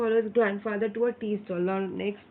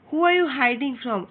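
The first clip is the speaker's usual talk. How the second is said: mock loud vendor; 4 semitones higher, 4 dB louder than usual. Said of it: "another vendor selling ribbons and clips asked".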